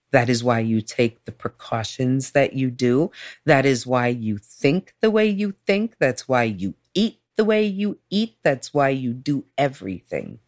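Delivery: lightly voiced calm, patient explainer; compassionate therapist. Therapist explaining a diagnosis to client, lightly voiced compassion. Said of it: "He was compassionate and kind and soft".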